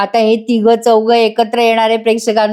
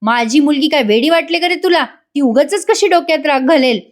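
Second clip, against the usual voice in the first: retold indignant father, higher-pitched at first; Prataprao, angry; 4 semitones higher than usual. Father defends his daughter to Sachin, angry scolding. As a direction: snap back in mild mock outrage. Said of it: "Prataprao चिडतात आणि म्हणतात".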